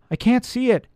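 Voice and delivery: high, anxious call; note of fear. A narrator's reading. Elf cannot find the rope, note of fear. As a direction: call up with a touch of panic. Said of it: "with a note of fear".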